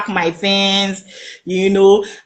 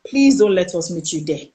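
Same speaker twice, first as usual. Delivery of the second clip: low, hushed warning, softer toward the middle; retold whisper; 5 semitones lower, 5 dB quieter than usual. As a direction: imitate a friend secretly tipping you off. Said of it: "he was whispering".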